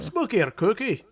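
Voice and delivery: a failed Irish that lands Scottish; Scottish accent. Pretend. Host trying Irish for Mason, slipping into mock Scottish. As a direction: caricature Scottish burr on spooky or kooky. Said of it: "that was Scottish".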